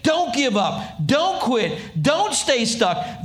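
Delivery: slow, firm encouragement; preached urging from Paul; earnest exhortation. Retold or imitated. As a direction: plead with them not to quit. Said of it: "He's saying".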